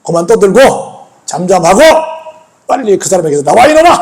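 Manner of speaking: acted command in separated phrases; imitated scolding with firm pauses; stern rebuke. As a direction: order the spirit out firmly. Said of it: "막 호통을 치셨습니다".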